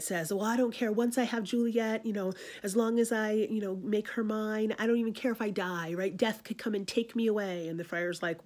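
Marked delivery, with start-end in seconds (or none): 0.3-7.7 put-on passionate young Romeo. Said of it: "hasty and, and passionate".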